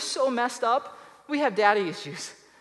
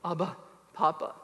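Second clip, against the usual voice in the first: tender cry; 5 semitones lower, 6 dB quieter than usual. Shown as a demonstration. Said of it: "he wants that guttural cry".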